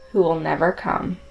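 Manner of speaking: ordinary talk, nothing marked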